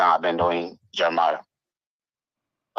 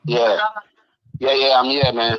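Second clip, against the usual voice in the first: three-way phone call; 6 semitones higher, 6 dB louder than usual. Real, not acted. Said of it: "I have Escada on the phone".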